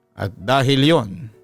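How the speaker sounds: ordinary delivery, nothing marked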